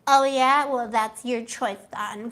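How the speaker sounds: a touch of snide, sulky shrug; passive aggressive. Retold or imitated. Reader imitates the partner's passive aggressive reply, mild snide. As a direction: say it sweetly with a hidden sting. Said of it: "real passive aggressive".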